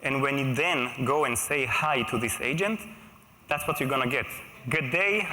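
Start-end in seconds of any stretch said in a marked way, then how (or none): 4.7-5.3 light Australian greeting, a bit higher; hint of an Australian drawl; mock Australian accent. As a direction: play a cheery Australian assistant, half-joking. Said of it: "I don't have Aussie accent".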